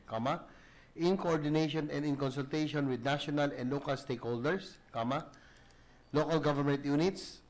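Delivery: reading text aloud for the record, punctuation spoken; dictating. Acted. Reads amendment aloud with punctuation.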